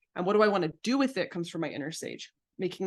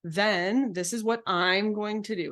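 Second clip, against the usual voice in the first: calm boundary statement; 3 semitones higher, slower than usual. Shown as a demonstration. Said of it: "the way that we recommend speaking boundaries".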